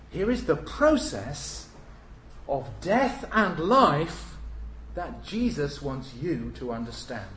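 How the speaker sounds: slow, deliberate words; slow emphasis. Shown as a demonstration. Preacher stressing the process, slow. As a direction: spell out each word. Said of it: "stated then restated".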